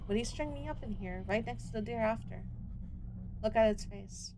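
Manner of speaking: steady storytelling read; story narration. A narrator's reading. Streamer reading the hunter scene to viewers, steady storytelling read. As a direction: read the scene out like a dark novel. Reads the game's story and dialogue aloud.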